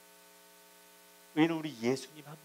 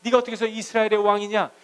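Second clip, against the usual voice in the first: loud, high-pitched scolding in God's role; acted-out angry reprimand, raised and forceful; mock divine rebuke; 5 semitones higher, 10 dB louder than usual. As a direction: thunder an accusing rebuke, as an imitation. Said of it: "이렇게 막 책망한 게 아니라".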